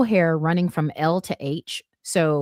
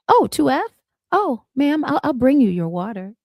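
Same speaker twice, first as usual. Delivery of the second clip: high, louder, suddenly eager voice; impressed flight attendant; 7 semitones higher, 6 dB louder than usual. Retold or imitated. Flight attendant learning the passenger is first class, suddenly obliging. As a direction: switch to raised, eager customer-service tones. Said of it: "She's like".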